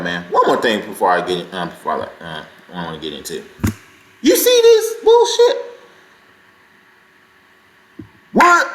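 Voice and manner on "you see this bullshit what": much higher, slow indignant outburst; outraged disbelief. Real, not acted. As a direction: let the outrage burst out. Outraged at a new clip.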